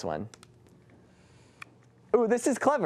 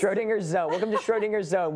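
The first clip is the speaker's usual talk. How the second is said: mock show intro; 6 semitones higher than usual. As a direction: announce it like a joking host. Mock show intro amid laughter.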